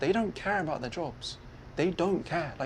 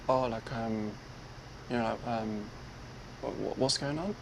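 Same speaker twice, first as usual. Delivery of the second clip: softly hesitant, polite enquiry; 4 semitones lower, 5 dB quieter than usual. Retold or imitated. Passenger asking the driver what's happening, tentatively polite. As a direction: ask politely, feeling for the words. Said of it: "in most, like, polite voice".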